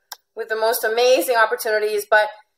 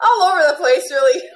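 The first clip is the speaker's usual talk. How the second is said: laughing; 7 semitones higher, 4 dB louder than usual. Real, not acted. Laughing about her mixed roots.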